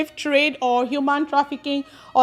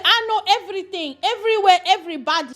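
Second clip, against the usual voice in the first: mock Italian accent; 5 semitones higher, faster than usual. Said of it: "She said".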